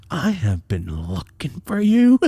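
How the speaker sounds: mad dad. Retold or imitated. Dad hunting his runaway son, mad and slow. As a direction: imitate a fed-up father, stretching each word. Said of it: "I could tell he was mad".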